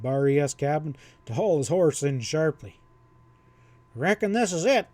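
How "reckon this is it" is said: calling out. A narrator's reading. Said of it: "he called to his lanky partner".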